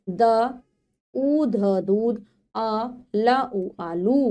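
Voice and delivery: slow syllable blending, then the sentence; phonics reading aloud. Shown as a demonstration. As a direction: sound out each letter for young learners. Exercise, filling in the matra.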